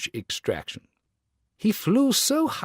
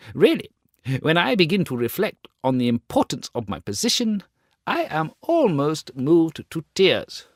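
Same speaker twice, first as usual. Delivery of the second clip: pompous rocket; 4 semitones higher than usual. Acted. Pompous rocket lecturing others.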